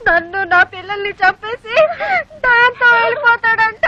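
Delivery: slow, drawn-out hammed-up wail; wailing lament. Wife telling her sister of husband's betrayal, wailing. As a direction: stretch each phrase into a lament.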